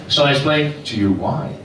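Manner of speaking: badly faked Moroccan accent; mock Moroccan accent. Barber offers his reason to the comic, rough Moroccan accent. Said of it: "That was the accent".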